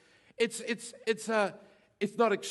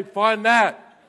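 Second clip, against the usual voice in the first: mocking challenge; 4 semitones higher, 14 dB louder than usual. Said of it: "and then say".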